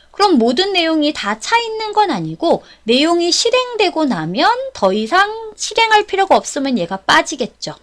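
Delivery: ordinary talk, nothing marked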